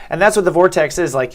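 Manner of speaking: ordinary talk, nothing marked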